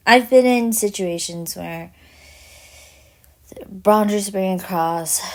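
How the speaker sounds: talking around a cough drop; words through a mouthful; chewing while talking. Real, not acted. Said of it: "All of you hear me munching on".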